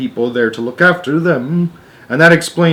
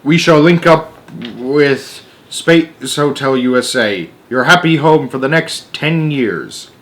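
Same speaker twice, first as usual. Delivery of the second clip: slow, raised announcement voice to passengers; over the loudspeaker; 3 semitones higher than usual. Acted. Astronaut to passengers on the loudspeaker, announcing slowly. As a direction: announce it like a pilot over the intercom. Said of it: "speaking to the passengers over the loudspeaker".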